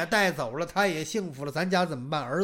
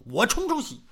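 plain reading voice

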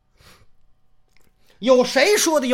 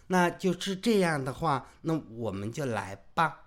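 soft, lilting Taiwanese Mandarin, much softer; Taiwanese accent; 5 semitones lower, 9 dB quieter than usual. Acted. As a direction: coo the line in a sweet Taiwanese accent. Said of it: "装什么嘛台湾人呐你啊".

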